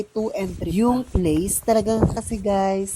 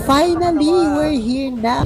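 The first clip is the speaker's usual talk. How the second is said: excited; 7 semitones higher, 4 dB louder, slower than usual. Real, not acted. Arriving at grassland after hike.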